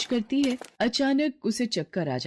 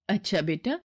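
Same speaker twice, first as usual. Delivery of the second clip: cautious mother. Acted.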